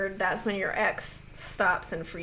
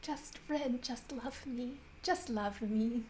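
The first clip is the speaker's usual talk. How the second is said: very soft, almost whispered begging; frustrated plea; 13 dB quieter than usual. Acted. Frustrated admirer begging Ren for love, hushed plea. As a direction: plead under your breath. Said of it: "so frustrated".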